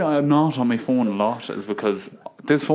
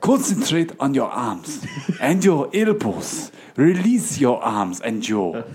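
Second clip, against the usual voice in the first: laughing meditation parody; 3 semitones higher, much slower than usual. Pretend.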